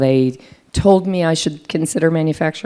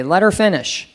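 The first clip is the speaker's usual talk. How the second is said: a firm, raised cut-in, higher and louder; firm interjection; 6 semitones higher, 4 dB louder than usual. Retold or imitated. Male ally in the meeting shuts down the interrupter, firm raised voice. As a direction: stop the interrupter in his tracks, firmly.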